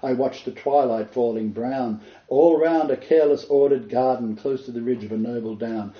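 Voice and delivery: measured, lilting poem recital; steady poetic reading voice. Acted. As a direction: read it like verse to an audience. Reads Tennyson poem aloud.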